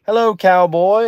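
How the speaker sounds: high, drawn-out British hello; singsong put-on British accent; imitated British greeting. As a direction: hail a cowboy in mock British. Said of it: "they're just like".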